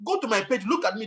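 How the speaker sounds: annoyed high-pitched comeback; exasperated. Real, not acted. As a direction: fire back at the commenter. Angry at a viewer comment.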